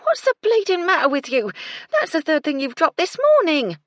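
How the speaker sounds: loud, high exasperated scolding. A narrator's reading. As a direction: tear into the girl, fed up. Gertie scolds the clumsy maid.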